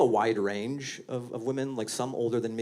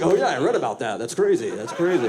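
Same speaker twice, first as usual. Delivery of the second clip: fake surprise; 3 semitones higher, 6 dB louder than usual. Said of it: "I have to be like".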